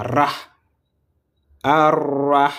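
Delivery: "Ar-Rah" with a long rolled r; teacher showing how "Rah" is pronounced; important syllable modelled. Shown as a demonstration. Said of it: "c'est très important".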